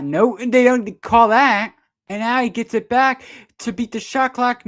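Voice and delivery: high, loud urgent call; excited call. Real, not acted. Commentator reacting to a no-call in a live play, high loud excitement. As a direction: ride the action up as the clock runs down. No foul called, play goes on.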